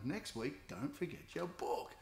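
"book" leaned on and set apart at the end; stress on book. Shown as a demonstration. Teacher reminding a student for next week, stress on "book". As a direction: punch the word "book" to drive it home. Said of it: "I'll put more emphasis on that word book".

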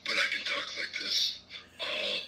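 high strained croaking voice held all through; Froggy voice. Shown as a demonstration. Guest offers to do the interview in the Froggy voice. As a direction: keep talking in the Froggy croak. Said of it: "in this voice".

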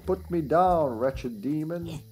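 slow, commanding gym coach; lightly voiced barking coach. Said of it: "That's the Coach's voice".

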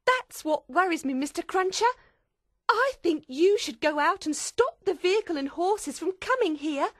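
very high, loud, fretful voice; agitated high-pitched pleading; tearful, worried. Acted. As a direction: fret urgently in a high character voice. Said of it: "Miss Pross said tearfully".

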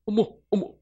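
a mock "oh my, oh my"; amazed gasp. Angela marvels when shown the verse, lightly imitated amazement. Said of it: "이걸 탁 보여주니까 안젤라가".

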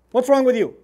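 loud, upset dad telling off his daughter; mock-stern parental outburst; upset father scolding. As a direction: scold loudly, like an exasperated parent. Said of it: "I'm upset".

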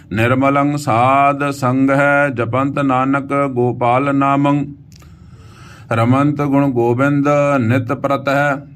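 slow, sustained Gurbani reading; measured verse chant on an even pitch; scripture recitation. Acted. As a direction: recite with long drawn vowels.

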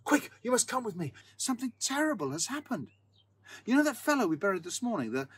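high, urgent, breathless voice; panicked plea. A narrator's reading. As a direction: beg him to come, full of panic. Sexton in panic wakes housemate.

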